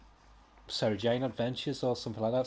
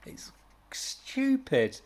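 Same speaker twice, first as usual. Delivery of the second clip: breathy whispered put-down; whispered scorn, drawn out slow; 12 semitones higher, much slower than usual. Real, not acted. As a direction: hiss it as a whispered aside. Scornful aside on the comic.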